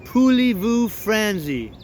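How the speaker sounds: lightly attempted, homespun French; French question in a drawn-out American accent; mock French. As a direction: garble French like a country boy reading phrasebook jabber. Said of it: "come to you and say".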